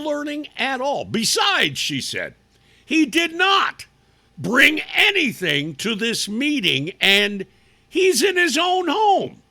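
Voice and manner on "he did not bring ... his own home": louder, higher, punching each word; emphatic outrage. Real, not acted. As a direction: hammer home the absurdity. Host mocking outrage at school.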